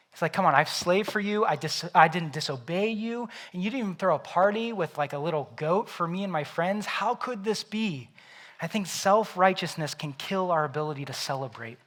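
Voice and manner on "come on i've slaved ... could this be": whiny complaint. Acted. Older son complains to father.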